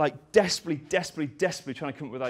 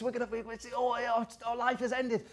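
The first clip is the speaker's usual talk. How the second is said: mock despair; 9 semitones higher, 5 dB quieter than usual. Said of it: "he goes".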